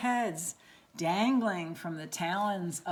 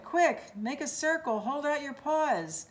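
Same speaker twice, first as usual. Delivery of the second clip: urgent orders; 6 semitones higher than usual. Acted. Pip directing the catch.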